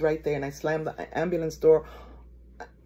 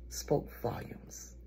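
very slow, soft whisper; barely voiced, drawn-out hush; hushed reveal; 8 semitones lower, 13 dB quieter, much slower than usual. Real, not acted. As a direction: let it fall to a weighty whisper. Grave reveal of the person's face.

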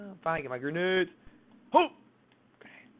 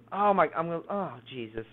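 ordinary talk

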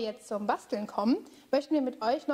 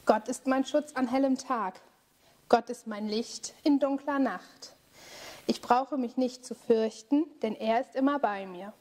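calm, steady recited refrain; prayer refrain. Acted. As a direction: lead the group in a spoken prayer.

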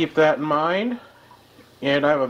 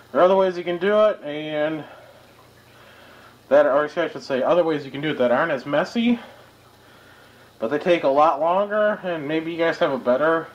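talking through a painter's mask; muffled behind a dust mask. Real, not acted. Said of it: "sorry if I sound muffled".

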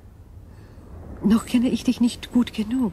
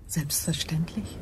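alien whisper, breathy and hushed; eerie whisper; 2 semitones lower, 9 dB quieter than usual. Acted. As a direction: breathe it like an unearthly being.

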